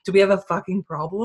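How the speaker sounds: picking a fight, half joking; mock tough challenge. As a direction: square up and challenge them. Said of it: "For some reason, I'm always like".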